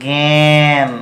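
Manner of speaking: জ্ঞান said as gyan, a g sound at the start; pronunciation demo. Shown as a demonstration. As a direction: sound জ্ঞান out as "gen", clearly. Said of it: "কিন্তু আমরা বলবো কেমন?". (জ্ঞান শব্দ গ-এর মতো উচ্চারণ)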